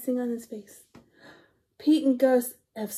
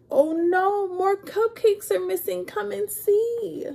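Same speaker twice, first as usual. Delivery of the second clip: higher, louder cry of alarm; alarmed exclaim; 8 semitones higher, 4 dB louder than usual. Acted. Storyteller calling the kids to see the missing cupcakes. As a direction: sound the alarm to everyone.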